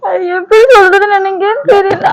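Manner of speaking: put-on tearful whine; mock lament. Wife unable to tell husband her trouble, mock crying. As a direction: wail as if lost for words. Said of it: "ஒப்பாரி வைப்போம்".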